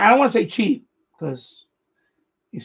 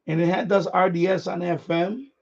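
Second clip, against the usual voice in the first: talking through a yawn; words stretched by a yawn. Real, not acted. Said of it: "I'm yawning".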